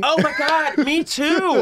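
excited agreement. Real, not acted. Excited agreement, high pitch.

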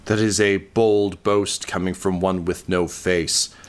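mock the hero, then bellow the boast; monster's retort. Undead monster boasting back at the hero, rising to a shout. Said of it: "She says".

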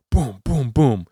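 spaced, punchy booms for footfalls; thudding spoken sound effect; imitated stomping footsteps. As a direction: act out heavy feet closing in. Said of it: "They're stomping".

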